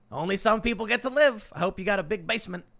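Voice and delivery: lightly acted doom announcer; mock TV announcement. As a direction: call it out like a hammed-up alert. Acting out movie's TV announcement.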